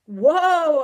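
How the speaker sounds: long, loud, high command; full-voiced alarmed shout. A narrator's reading. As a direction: yell to halt a horse. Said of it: "I shouted to the horse".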